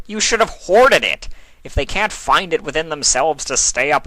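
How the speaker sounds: a touch of a gloating chaos god. A narrator's reading. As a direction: lecture her with lazy smug glee. Discord lectures Nightmare Moon.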